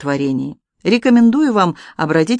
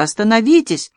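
higher-pitched plea, mildly called out; restrained cry; 5 semitones higher than usual. A narrator's reading. Woman begs the duellists to stop, crying out mildly. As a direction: call for a halt without full volume. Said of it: "крикнула Анжелика".

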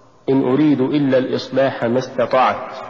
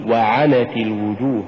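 وعنت with و set apart and ع pushed; push after waw. Shown as a demonstration. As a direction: lean on عنت in وعنت. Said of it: "قل". (نطق وعنت بدفع العين بعد الواو)

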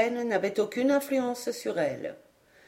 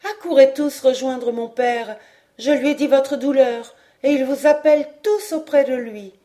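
high, louder summons; clear raised voice; 4 semitones higher, 5 dB louder than usual. A narrator's reading. Girl summons all to her father, clear raised voice. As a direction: call them over clearly, pitched up. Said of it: "élevant sa voix claire".

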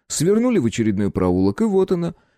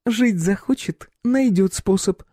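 predatory grin; 12 semitones higher, slower than usual. A narrator's reading. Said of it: "в хищной улыбке".

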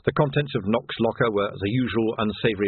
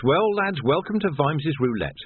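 higher-pitched wry inner voice; wry Vimes; 5 semitones higher than usual. Acted. Vimes silently challenges the watchmen, wry. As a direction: savour the dare silently thrown at the lads.

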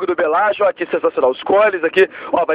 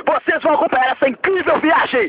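TV host voice; 4 semitones higher than usual. Acted. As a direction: present it like a TV show host. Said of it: "a gente vai falar alto".

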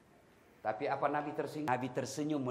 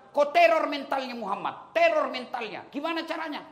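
higher, loud pushy orders; scheming Abu Jahal; 12 semitones higher, 7 dB louder than usual. Acted. Abu Jahal ordering his hired thug, loud and scheming. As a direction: bark out the plot. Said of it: "Abu Jahal bilang".

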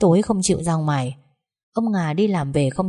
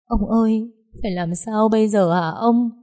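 higher-pitched acted pleading; plaintive crying; 4 semitones higher than usual. A narrator's reading. Wife begging her husband what to do, plaintively crying. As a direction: plead tearfully for an answer. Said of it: "lay gọi rồi lại khóc thống thiết".

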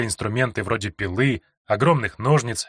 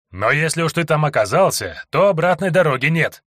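mock-cheerful guard; 4 semitones higher than usual. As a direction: cheerfully promise him doom. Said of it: "подбадривал второй надзиратель". (злорадно подбадривающий тюремщик)

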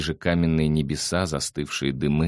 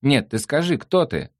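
high, thin questioning; thin little voice; 9 semitones higher, 4 dB louder than usual. A narrator's reading. The creature questions Nick from behind, in a thin high voice. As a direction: pipe up in a small high voice. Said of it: "тоненьким голосом вопрошало сзади существо".

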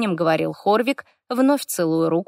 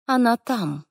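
rustling whisper; 5 semitones higher, slower than usual. A narrator's reading. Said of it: "Голос Вейдены прошелестел".

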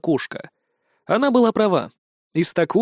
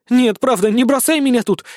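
desperate begging; 8 semitones higher, 3 dB louder than usual. A narrator's reading. Cat begging not to be abandoned.

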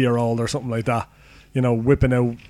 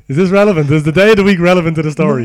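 mock indignant; 4 semitones higher, 7 dB louder, faster than usual. Mock indignant at cohost's tangent.

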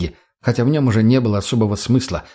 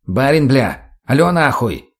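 calling out; 2 semitones higher, slower than usual. Acted. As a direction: yell into the radio for an answer. Shouting into the dead radio. (резко окликая в рацию)

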